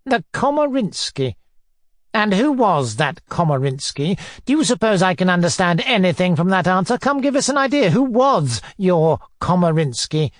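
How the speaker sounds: mock-puzzled, badgering questions; mildly scornful inquisitor; pompous tyrant. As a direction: echo it in disbelief, then badger. Narrator plays Foma interrogating.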